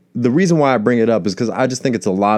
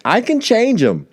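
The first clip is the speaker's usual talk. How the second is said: put-on much higher, girlish voice of a hopeful wife; 14 semitones higher than usual. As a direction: squeal it like a smitten bride. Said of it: "She's like".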